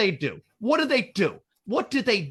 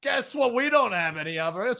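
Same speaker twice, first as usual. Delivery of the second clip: laughing shout; 7 semitones higher than usual. Real, not acted. Ranting to friends about broke NASA, laughing shout. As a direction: yell it in disbelief, half laughing.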